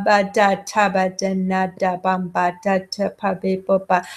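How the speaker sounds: a hint of baby babble, mixed syllables strung together; string different syllables like a babbling infant; variegated babbling. Shown as a demonstration. Lecturer demonstrating variegated babbling to students, lightly imitated baby babble. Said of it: "that's variegated babbling".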